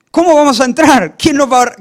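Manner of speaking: loud, high, acted agitation; alarmed outcry. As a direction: cry out as if at a loss. Worried women acted out loudly.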